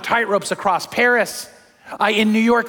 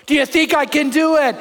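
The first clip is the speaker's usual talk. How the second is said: showman's call; 6 semitones higher, 4 dB louder than usual. Retold or imitated. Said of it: "he goes".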